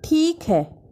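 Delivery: mock astonishment, lightly played; a hint of acted wonder; feigned surprise. A narrator's reading. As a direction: put on a little surprised tone. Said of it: "मैंने स्वर में आश्चर्य भरकर कहा".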